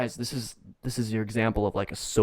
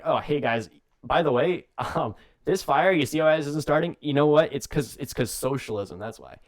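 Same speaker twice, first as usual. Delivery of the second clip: mock Kane campaign pitch; 3 semitones higher, 4 dB louder than usual. Kane voiced blaming socialism.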